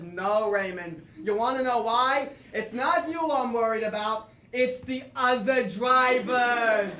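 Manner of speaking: slow, building to a shouted punchline; mother's stern warning, slowing to a shout; grandpa voicing his mother. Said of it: "And he says".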